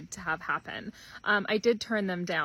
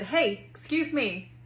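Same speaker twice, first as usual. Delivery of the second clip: pointed excuse me; 4 semitones higher, 4 dB louder, slower than usual. Retold or imitated. Mom demanding kids' attention.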